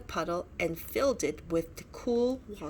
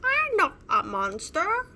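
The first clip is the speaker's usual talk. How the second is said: insistent; 11 semitones higher, 6 dB louder than usual. A narrator's reading. Ava reassuring scared friends.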